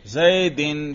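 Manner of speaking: زیدن ending in a clear "-in"; genitive ending. Shown as a demonstration. Teacher showing pupil the jar case, genitive ending. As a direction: say زیدن as "zaidin", short i before n. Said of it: "اس کے جر پر ہم کیا کر رہے ہیں".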